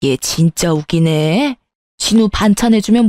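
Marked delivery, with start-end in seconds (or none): 0.0-1.6 scornful. Acted. Scornful mother-in-law.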